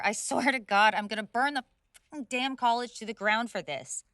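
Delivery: loud ranting threat; furious threat. Acted. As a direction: rage at the college. Furious about forced room share.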